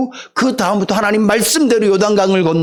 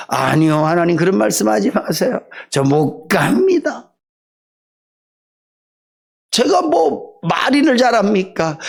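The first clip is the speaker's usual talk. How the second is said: reluctant Moses. Acted. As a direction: back away from the task, begging off. Moses refusing God's call.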